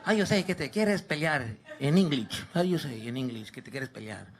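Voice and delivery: put-on low, soft dad with a Spanish accent; Mexican-Spanish accented dad. Dad asking son for English words, Spanish accent. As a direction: ask it quietly in a heavy Spanish accent.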